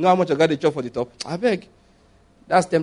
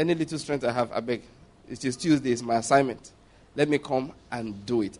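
soft pleading self-quote; 5 semitones lower, 7 dB quieter than usual. Retold or imitated. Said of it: "I said".

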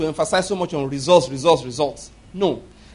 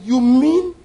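excited Lord; 7 semitones higher, 4 dB louder than usual. Acted. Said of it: "The Lord was excited".

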